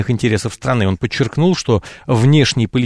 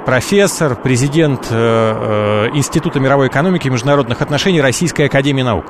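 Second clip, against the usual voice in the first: raised voice for a bad phone line; speaking louder. Real, not acted. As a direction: speak up so the listener hears. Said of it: "говорите громче, пожалуйста".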